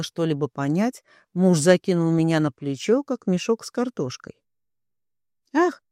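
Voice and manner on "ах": high sudden squeal; shrill cry of surprise; startled squeal. A narrator's reading. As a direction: yelp as you're lifted off your feet. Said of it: "взвизгнула я".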